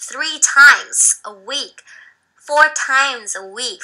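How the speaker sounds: three times a week, slow and drawn out; slow teacher model. Shown as a demonstration. Teacher slowly models the phrase for students. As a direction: say it slowly for the class to repeat. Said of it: "แล้วจะเป็น".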